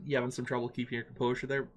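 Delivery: put-on slipping into a Canadian accent, quick; a Canadian accent creeping in. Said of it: "I started slipping into the accent".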